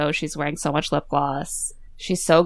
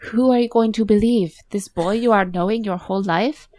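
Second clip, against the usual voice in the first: higher-pitched mock Italian accent; Isabella's bad Italian accent; 4 semitones higher than usual. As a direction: put on a hammy Italian accent to challenge her. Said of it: "in the worst bad Italian accent".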